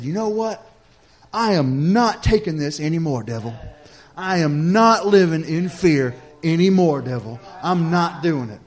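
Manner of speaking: firm, deliberate stand with stressed words; reared-up defiance. Retold or imitated. Father standing up to the devil, retold defiance. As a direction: put your foot down, slow and resolute. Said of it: "the man in me reared up".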